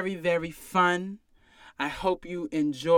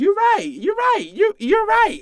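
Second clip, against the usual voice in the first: very high, sing-song You're right; squeaky mocking agreement; 5 dB louder than usual. Bartender mockingly agreeing with a customer, in a very high squeak.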